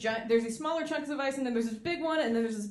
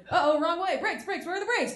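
higher, panicky pilot; mock panic; 7 semitones higher than usual. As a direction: flap about looking for the brakes. Pilot panics about brakes.

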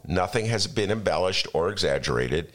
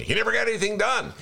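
mocking centrist friends; faster than usual. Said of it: "when I speak to my centrist friends".

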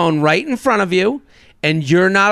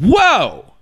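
startled whoa; 8 semitones higher, 4 dB louder than usual. Retold or imitated. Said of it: "And I said".

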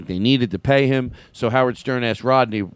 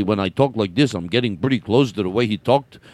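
comedian impression; 3 semitones lower than usual. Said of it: "Because he talked like this".

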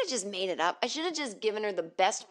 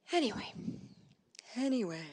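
softer, careful coach-like delivery; trained-voice reset; 5 semitones higher, 6 dB quieter than usual. Shown as a demonstration. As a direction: glide quietly down from a high start.

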